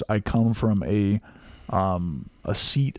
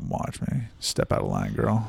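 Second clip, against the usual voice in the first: mock threat; 5 dB quieter than usual. Joking threat to friend.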